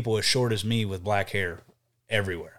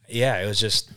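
ordinary delivery

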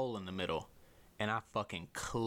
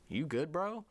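imitated concerned friend; 7 semitones higher, slower than usual.

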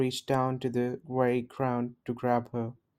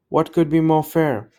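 indignant; 4 semitones higher, 8 dB louder than usual. A narrator's reading. Queen's outraged retort.

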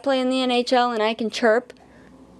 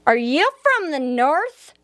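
Southern drawl; 3 semitones higher, slower than usual. Retold or imitated. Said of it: "their southern drawl".

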